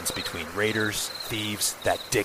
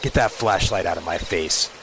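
lightly voiced gruff old cop; a hint of a stern beat cop; 1930s beat cop; 5 dB louder than usual. Plays a gruff police commander.

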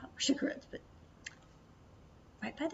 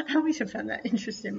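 laughing; 9 dB louder, faster than usual. Real, not acted. Vlogger amused by hidden condoms in stores, laughing. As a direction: laugh breaking through the whisper.

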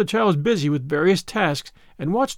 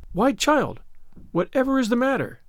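surprised; 6 semitones higher than usual. A narrator's reading. Marilla surprised at tears.

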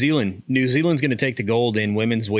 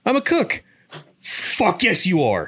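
high, squeaky mock voice of a poser; mock cook claim; 8 semitones higher, slower than usual. Teasing a valor thief, squeaky mock voice. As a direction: pitch it way up like a wannabe bragging. Mocking a fake cook's claim.

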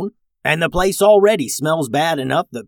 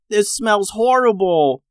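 disgusted; 9 semitones higher, 4 dB louder than usual. A narrator's reading. Stink in city hall.

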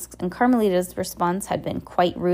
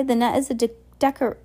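falsely smiling; 5 semitones higher than usual. A narrator's reading. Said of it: "with some false, with a smile".

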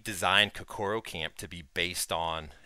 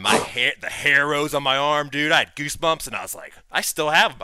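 higher and louder, thrilled; excited; 6 semitones higher, 7 dB louder than usual. Real, not acted. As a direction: relive the goosebumps with excitement. Excited goosebumps recollection.

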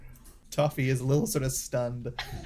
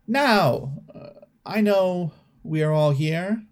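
regal tone; 2 semitones higher than usual. Acted. Toffee addressing the party crowd, mildly regal. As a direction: address the crowd like minor royalty. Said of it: "Toffee speaks in a, in a regal tone".

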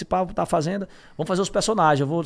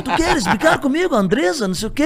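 mock angry Theo; 9 semitones higher, 5 dB louder than usual. Retelling Theo's on-screen fight.

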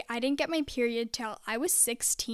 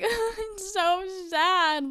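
mock sad; 8 semitones higher, 3 dB louder, much slower than usual. Mock sad reply after friends.

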